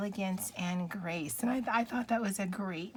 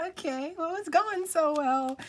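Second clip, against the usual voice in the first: wry sarcasm; 8 semitones higher, 5 dB louder than usual. Real, not acted. Wry remark after blunder.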